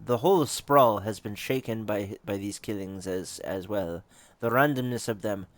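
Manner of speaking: put-on measured, approximate Russian accent; a loosely done Russian accent. Game character explaining her stake in the murders, Russian accent. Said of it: "want to give her a Russian accent".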